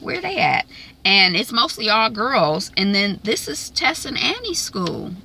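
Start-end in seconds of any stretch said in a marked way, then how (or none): 0.0-0.7 surprised question. Retold or imitated. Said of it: "I'm like".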